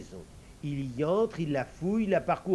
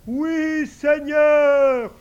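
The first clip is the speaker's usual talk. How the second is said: much higher, louder eager servant voice; invisible servant; 12 semitones higher, 14 dB louder, much slower than usual. Acted. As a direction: answer the master high and ready. Servant answers.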